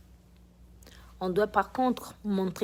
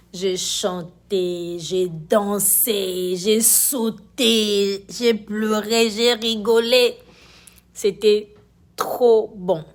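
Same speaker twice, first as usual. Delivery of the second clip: excited; 7 dB louder, much slower than usual. Real, not acted. Joyful recount after church choir.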